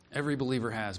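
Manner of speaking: "Every believer has" repeated softly, stress on EVERY; quiet echo. Shown as a demonstration. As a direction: let it sink in, a soft reflective repeat.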